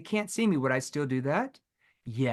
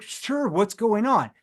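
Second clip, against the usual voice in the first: higher, louder, slow guarded reply; guarded prospect; 4 semitones higher, 5 dB louder, slower than usual. Retold or imitated. Prospect brushing off the salesman, guarded and slow. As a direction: sound wary and closed off. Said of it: "They're all gonna be like".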